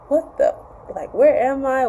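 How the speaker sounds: startled, confused and half-whispered; a groggy wake-up, lost; confused waking. Retold or imitated. Woman waking up confused in his bed, startled. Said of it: "She, she woke up like".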